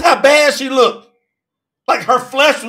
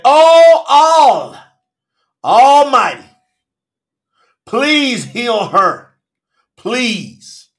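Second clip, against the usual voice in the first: crying out to God; 4 dB louder, much slower than usual. Acted. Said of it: "Masha cried out to Yahuwah".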